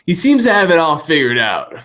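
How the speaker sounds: glitchy robotic voice mutator; cyborg voice. Real, not acted. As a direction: voice garbled like a robot. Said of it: "sorry for turning into a cyborg".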